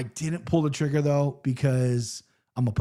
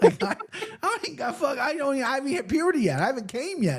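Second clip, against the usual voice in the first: laughing while talking; 10 semitones higher than usual. Real, not acted.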